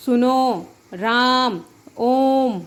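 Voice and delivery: सुनो, राम, ओम with the last vowel drawn out slowly as if calling someone; calling out, prolonged. Shown as a demonstration. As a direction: call out and hold the final vowel, ओ in ओम stretched long. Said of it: "प्रायः पुकारते समय". (पुकारते हुए, आखिरी स्वर लंबा खींचकर)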